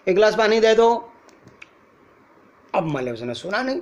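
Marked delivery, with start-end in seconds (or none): 0.1-1.1 loud, higher-pitched neutral call; calling to someone far. Shown as a demonstration. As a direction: project the request across a distance. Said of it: "दूर होगा". (दूर बैठे को ऊंची आवाज़ में पुकार)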